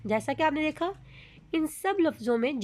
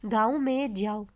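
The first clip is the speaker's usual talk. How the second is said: a bit slower, each word distinct; slow clear reading. Shown as a demonstration. Teacher reading an example to students, slow and clear. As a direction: spell it out with your voice. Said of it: "जो हम आपको पढ़ के सुनाएंगे".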